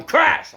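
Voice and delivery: loud high crash sound effect; mock crash noise. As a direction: shout the crash like a blow landing. Impact sound in retold fight.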